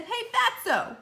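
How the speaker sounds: high, loud jeer; taunting call. A narrator's reading. Kids calling Eric Bacon names, loud taunt. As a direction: sneer it out like a bully.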